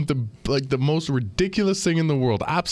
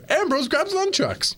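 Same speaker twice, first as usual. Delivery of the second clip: laughing; slower than usual. Real, not acted. Laughing retelling absurd match.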